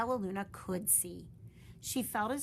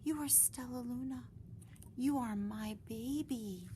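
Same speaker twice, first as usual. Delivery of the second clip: tender whisper; 5 semitones higher than usual. Acted. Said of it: "she whispered".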